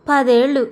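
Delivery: పదేళ్ళు pressed firm; weight every syllable of పదేళ్ళు; stressing ten years. A narrator's reading. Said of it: "పదేళ్ళు అన్న మాటల్ని వత్తి పలుకుతూ". (పదేళ్ళు అని వత్తి పలకడం)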